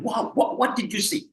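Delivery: high surprised exclamation, pitch jumping up; surprised rising pitch. Shown as a demonstration. Lecturer to students, showing surprise with pitch rising high. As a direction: demo a surprised question going way up. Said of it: "When you want to emphasize something, or you are surprised".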